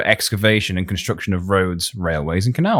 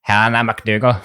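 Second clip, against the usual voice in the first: Irish accent demo. Shown as a demonstration. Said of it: "I can't do that".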